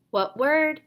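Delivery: brisk teacher question; teacher prompt. Shown as a demonstration. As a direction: prompt the student to blend. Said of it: "prompt that what word moment".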